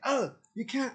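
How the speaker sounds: high, loud mocking squeak of a protesting officer. Mimicking officers to viewers, squeaky mock protest. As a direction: mimic them like a whiny little objection. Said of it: "they're like".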